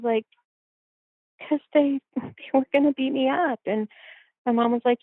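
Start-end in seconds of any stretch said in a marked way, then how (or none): 1.5-3.6 laughing excuse. Retold or imitated. Explaining to mom, laughing.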